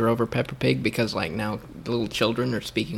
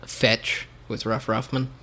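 clear repeat; slower than usual. Real, not acted. Repeating the show title after a friend says what, clear and slow.

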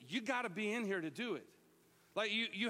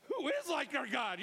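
shouted praise; 6 semitones higher than usual. Retold or imitated. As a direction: join the crowd at full voice. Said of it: "you're sitting there going".

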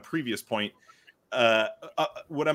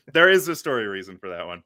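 laughing; 4 semitones lower, 3 dB louder than usual. Real, not acted. Laughs while hinting at spoiler.

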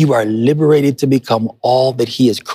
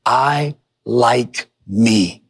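very slow, deliberate declaration; much slower than usual. Shown as a demonstration. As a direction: say each word slowly, like a vow. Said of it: "Here's the first declaration".

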